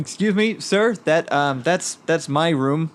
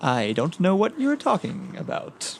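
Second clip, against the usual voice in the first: slow, innocent feigned ignorance; playing dumb; 4 semitones higher, slower than usual. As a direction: act clueless and slow. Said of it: "good play dumb".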